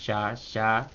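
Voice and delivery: "Ya, ya" low and soft; two soft, low-toned beats on "Ya, ya"; low accent. Shown as a demonstration. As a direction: drop both "Ya, ya" below the talking pitch. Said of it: "acento bajo".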